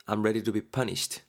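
very slow, meek apology; slow, meek acted apology; slow contrite line. Shown as a demonstration. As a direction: drag it out humbly. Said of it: "B가 말합니다".

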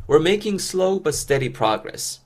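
very slow, every syllable laid out; slow model reading. Shown as a demonstration. English teacher modeling the phrase for learners, very slow. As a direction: model it slowly for students to copy. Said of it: "듣고 따라해보세요".

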